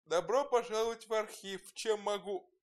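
drowsy, just-woken archivist; sleepy voice. A narrator's reading. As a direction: say it half asleep, mid-yawn. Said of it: "сонным голосом произнёс". (сонным голосом)

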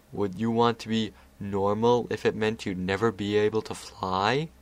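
lightly voiced patient Discord; Discord explaining. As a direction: reason with the child calmly.

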